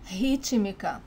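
rítmica starting with an English H sound. Shown as a demonstration. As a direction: say rítmica as "HEE-chee-mee-ka". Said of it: "it sounds like the H in English".

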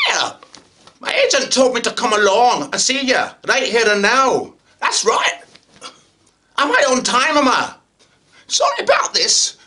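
boisterous Scottish actor at an audition. Acted. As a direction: play it big and loud in a Scottish accent. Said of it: "went up to Scotland".

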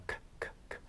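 "크" as bare puffs of air, no vowel; voiceless K sound. Shown as a demonstration. Teacher showing learners that K is unvoiced, as voiceless puffs. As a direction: release "크" with the vocal cords still. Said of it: "K는 무성음이에요".

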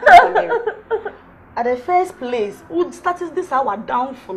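high loud wail of despair, then slow; wailing cry. Acted. Crying out to Sister Mary in despair, then slowing down. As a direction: sob out her name, then drag the words.

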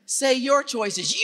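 very slow call, Your rising; slow prompt. Shown as a demonstration. Speaker cueing the audience, very slow, rising on your. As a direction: draw out the cue for the crowd. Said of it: "that one's always louder".

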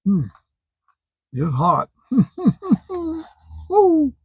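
chewing while talking; breathing out over hot bite; mouth full of hot food. Real, not acted. Seen 0: Spoke moments after biting burger, chewing, wiped mouth with napkin.

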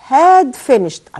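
very slow, had stressed; slow dictation. Shown as a demonstration. Teacher dictating the past perfect slowly. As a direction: stretch out each word for writing. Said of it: "dictating the new tense".

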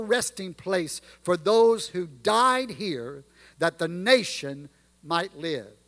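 reading the Gettysburg Address in a measured, stately cadence; formal recitation. Acted. Preacher reciting Lincoln's speech to the congregation, stately. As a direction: let each phrase land with weight.

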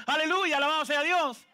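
high, loud hallelujah; joyful praise. Retold or imitated. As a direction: shout praise with delight. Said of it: "Se supone que pase siempre".

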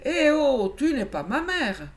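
lancé fort, aigu et moqueur; réplique insolente. Acted. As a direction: envoyer promener l'autre. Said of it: "aurait plutôt répondu". (réplique insolente, forte et aiguë)

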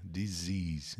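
"Disease" with a Z sound in the middle, S voiced like a Z between vowels; "Disease" said slowly, clearly voiced Z. Shown as a demonstration. Teacher shows "Disease" to the class, S voiced like a Z. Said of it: "mas tem som de Z".

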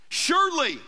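firm declaration, each affirmation set apart; bold, confident. Retold or imitated. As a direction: voice David's confidence without wavering. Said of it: "It's bold. He's standing firm".

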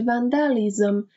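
"وندالیزم" carefully sounded out, ending in -lizem; careful pronunciation. Shown as a demonstration. Teacher warns class about pronunciation, carefully modelled "وندالیزم".

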